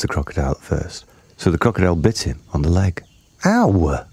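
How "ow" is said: lightly voiced big elephant; a hint of a big, deep elephant. A narrator's reading. Elephant bitten on the leg, big-voiced yelp. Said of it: "said Trunky in his big, deep voice".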